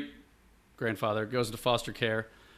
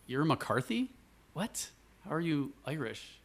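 mildly incredulous, raised-pitch questioning; retold disbelief; 4 semitones higher, 4 dB quieter than usual. Strangers at the grocery store quizzing dad's surname, mild disbelief.

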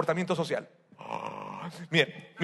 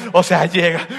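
mock shout; 8 dB louder than usual. The shouter bursts in.

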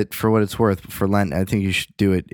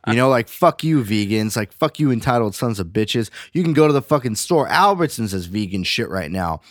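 put-on higher, scornful ranting voice of a grizzled old vegan; old school vegan rant; 4 semitones higher than usual. Old school vegan berating new vegans, scornful higher rant. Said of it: "vegans ten years ago that are still vegan today are like".

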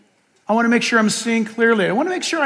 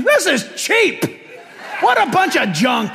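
mock criticizing; 7 semitones higher than usual. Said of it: "So I'm criticizing".

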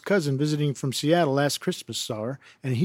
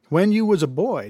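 laughing while reading; 4 semitones higher, 3 dB louder than usual. Real, not acted. Reader laughs at crude question.

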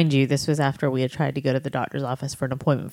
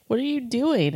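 surprised mother; 9 semitones higher than usual. Retold or imitated. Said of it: "I was like".

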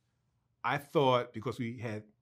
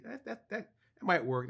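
chuckling approval; amused, stumbling approval; laughing; 5 semitones higher than usual. Retold or imitated. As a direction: stammer it through a laugh. Retold Schultz reacting with a laugh.

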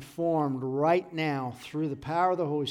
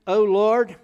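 loud, raised call to God; crying out; 5 semitones higher, 10 dB louder than usual. Retold or imitated. Preacher voices David calling to the Lord, crying out. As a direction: cry it out over the congregation. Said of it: "David is crying out to the Lord".

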